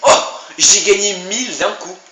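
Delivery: loud, slow, gleeful cheer; excited shout. Real, not acted. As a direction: crow about the win. Big reward in game.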